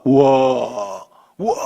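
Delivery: a long low drawn-out 우와 in awe; stretched wow. Acted. Pastor voicing Jesus marveling at faith, long awed wow. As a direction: draw it out, amazed.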